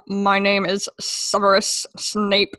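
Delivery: slow, lightly voiced parody Snape; a hint of a stern professor, slow; slow mock-menacing professor. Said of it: "parodied voice".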